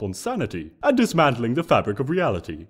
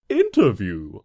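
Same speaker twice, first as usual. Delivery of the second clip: quizzically; 5 semitones lower than usual. Acted. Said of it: "I asked, quizzically".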